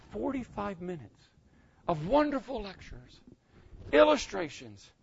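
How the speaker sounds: high-pitched wounded disbelief; mock incredulous. Teacher answering student who wants one sentence, incredulous. Acted reply to student's deflating question.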